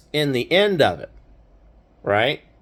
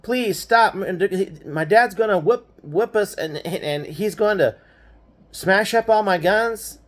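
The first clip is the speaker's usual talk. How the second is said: retold begging; 4 semitones higher than usual. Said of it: "And so I'm begging him".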